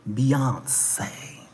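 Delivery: breathy reverent whisper of the name. Real, not acted. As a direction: whisper it like a secret treasure. Whispered name after proclamation.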